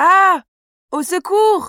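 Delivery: sudden, alarmed cry. Spotting a big spider on the sofa, crying out for help. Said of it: "Pourquoi tu cries comme ça".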